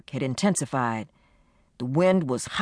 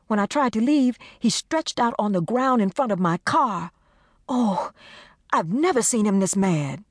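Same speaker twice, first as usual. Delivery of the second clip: frightened friend; 5 semitones higher than usual. Acted. Desiree frightened, explaining.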